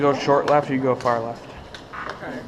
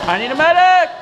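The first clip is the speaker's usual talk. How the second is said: man down shout; 5 semitones higher, 3 dB louder than usual. Real, not acted. Hit again, calling for medic.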